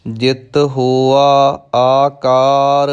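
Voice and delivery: slow verse reading with long-held line endings; measured Gurbani recitation; scripture recitation. Shown as a demonstration. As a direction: recite each phrase deliberately, stretching the last vowel.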